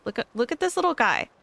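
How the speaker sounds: fast, high cute gushing; excited gushing. Real, not acted. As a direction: gush over the little guy. Gushing over cute creature.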